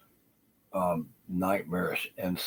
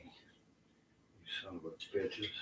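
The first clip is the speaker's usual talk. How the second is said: hissed under his breath, slow; whispered curse; 10 dB quieter, much slower than usual. Real, not acted. Cursing the people he blames, whispered. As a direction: spit the insult in a whisper.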